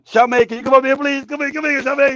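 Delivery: calling out. Real, not acted. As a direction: call someone over from across the room. Calling guest over to join him.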